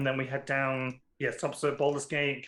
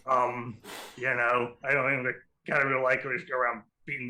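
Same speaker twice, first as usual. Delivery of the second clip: lightly voiced cigar-chomping pirate; gravelly pirate voice. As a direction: talk round a cigar like a pirate. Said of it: "I'm glad I have a voice for her now".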